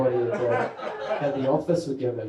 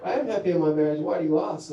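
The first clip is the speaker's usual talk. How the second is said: botoxed housewife; faster than usual. Retold or imitated. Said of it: "Auckland housewife who's had too much Botox".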